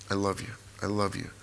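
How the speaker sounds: soft, low declaration; hushed, sincere repetition; tender affection. Retold or imitated. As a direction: say it quietly to loved ones. Retold telling loved ones.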